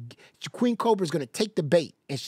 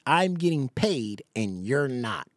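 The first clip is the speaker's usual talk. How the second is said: slow and lower, deadpan mock; mocking repeat, lower; 5 semitones lower, slower than usual. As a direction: flatten it lower to ridicule.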